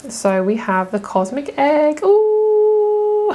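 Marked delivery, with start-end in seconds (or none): 2.0-3.3 high squeal of delight; real delighted squeal; delighted ooh. Real, not acted. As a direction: coo with real excitement over a favourite. Excited about the cosmic egg.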